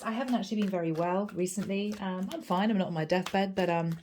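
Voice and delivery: hoarse from a cold; raspy, under-the-weather voice; gravelly voice. Real, not acted. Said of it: "Forgive my gravelly voice".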